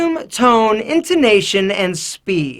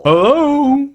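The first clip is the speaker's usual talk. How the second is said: forced macho growl, squeaking; squeaky growl; 5 semitones higher, 3 dB louder than usual. Retold or imitated. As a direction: strain for a macho low growl. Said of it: "this low-pitched squeaky growl".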